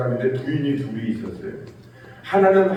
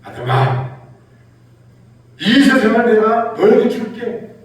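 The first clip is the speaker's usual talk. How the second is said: God's gift voice; 5 semitones higher, 6 dB louder than usual. Retold or imitated. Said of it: "음성은 어땠을까?".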